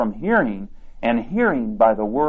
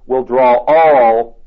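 "will draw all" drawn out slow and louder; slow emphatic stress; 5 dB louder, much slower than usual. Acted. Preacher to congregation, slow emphatic stress on "draw all". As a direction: lean hard on "draw all", slowly.

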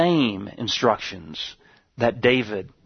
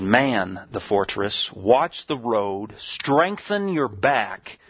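slow emphatic command; slower than usual. Acted. Preacher quoting the prophet's command.

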